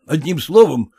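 ordinary delivery

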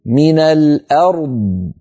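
من الأرض slow, the r kept distinct before the heavy d; slow من الأرض with an audible r; clear r in الأرض. Shown as a demonstration. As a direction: let the r of الأرض sound before the emphatic d. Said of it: "اسمعوني جيدا".

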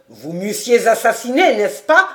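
snatch the sentence away; sharp interruption. A narrator's reading. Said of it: "interrompit Daumont". (Daumont coupe la parole, moqueur)

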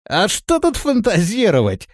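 с усмешкой, выше; насмешливо хмыкнув. A narrator's reading. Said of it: "хмыкнул Рохля". (с усмешкой)

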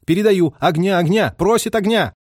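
loud, high radio relay; insistent repeated plea. A narrator's reading. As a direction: call for fire with growing urgency. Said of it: "повторял радист".

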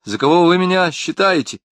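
mild mock indignation; indignant. A narrator's reading. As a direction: bristle at the accusation. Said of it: "рассердился".

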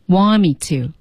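"want me to" as one joined unit; linked speech. Shown as a demonstration. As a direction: run "want me to" together as "wammi-to". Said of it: "这是连读哦".

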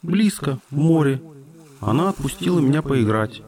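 lightly voiced little dolphin; a hint of a playful dolphin cub; young dolphin voice. Dolphin's voice held.

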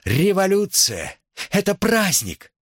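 high, exultant proclamation; slogan cry. A narrator's reading. Nicole's last slogan to the rowdy students, high cry. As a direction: proclaim it over the uproar.

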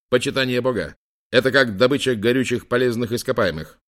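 громкое уверенное заявление; заяви с полной уверенностью; уверенно. Acted. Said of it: "уверенно заявлял". (уверенно и громко)

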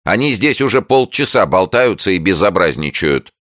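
high, loud complaint; jabbering neighbour. A narrator's reading. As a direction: tattle in a fuss. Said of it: "затараторили за дверью". (суетливая жалоба соседки)

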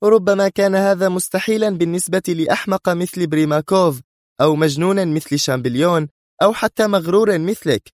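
heated, high-pitched woman's tirade; sharp. A narrator's reading. Sonia rebukes the man who doubted her, sharp. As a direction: sustain a high, sharp boast. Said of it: "وتواصل في حدة".

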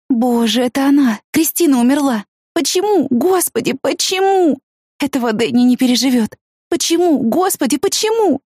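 high, anguished cries of why; despairing wail. A narrator's reading. Woman learning friend died, anguished high wail. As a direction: plead to God in grief. She realizes Christina is dead.

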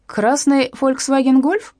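put-on slow, creaky old newspaper seller; old newspaper seller questioning Zhanna, creaky. A narrator's reading. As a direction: croak the question out slowly. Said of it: "послышался рядом скрипучий голос".

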